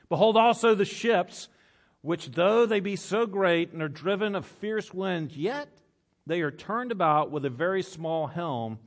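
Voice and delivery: a preacher lifting the text; emphatic scripture reading. Acted. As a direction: declaim it to the whole room. Reads scripture with rising force.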